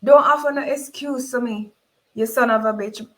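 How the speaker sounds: a mother's loud, angry inner curse at the man; inner scream. Acted. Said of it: "In my head, I scream".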